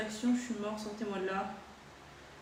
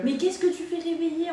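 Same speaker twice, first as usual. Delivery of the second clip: higher and louder outburst; indignant; 7 semitones higher, 7 dB louder than usual. Real, not acted. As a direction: protest loudly. Teasing outburst.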